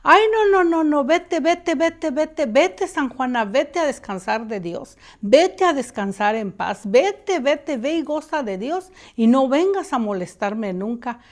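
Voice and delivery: frightened pleading. Retold or imitated. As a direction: shoo the ghost away in terror. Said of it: "ella sí se espantó muchísimo". (súplica asustada, mucho más aguda y fuerte)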